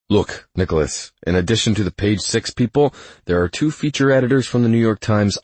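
lightly voiced manager laying out the problem; lightly voiced Brenton. Assistant warning Nicholas about reporters aboard, lightly voiced pleading.

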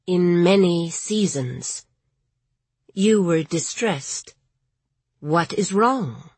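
slow, syllable by syllable ancient tree; like wind through old bellows; talking tree. A narrator's reading. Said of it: "Its voice sounded like the wind blowing through an old bellows".

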